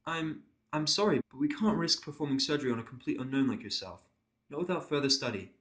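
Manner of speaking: a careful, apologetic pony nurse. Acted.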